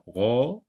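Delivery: rose cut into ro, pause, ze; teacher segmenting rose by syllable; rose in two syllables. Shown as a demonstration. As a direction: split rose, holding ro, then a separate ze. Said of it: "je sectionne le mot en deux syllabes".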